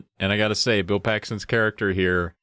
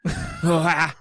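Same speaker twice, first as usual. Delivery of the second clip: put-on Austrian baby cry; 7 semitones higher than usual. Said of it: "He even came out crying in that accent".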